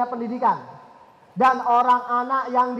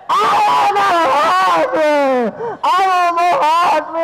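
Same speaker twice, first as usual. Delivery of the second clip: loud, high whining demand; child tantrum; 4 semitones higher, 4 dB louder than usual. Retold or imitated. Child yelling at parents for a phone, tantrum.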